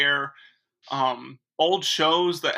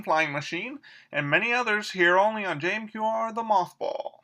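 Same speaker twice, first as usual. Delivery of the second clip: swooping, lilting 1940s announcer; gee-whiz radio presenter with sing-song pitch; old-time radio host; 4 semitones higher than usual. Acted. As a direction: play a chipper vintage radio emcee.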